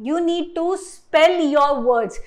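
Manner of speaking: "spell" stressed, said slowly; teacher stressing a key rule; slow emphatic point. Shown as a demonstration. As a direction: lean on "spell", slow and clear. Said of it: "main चीज क्या करनी है".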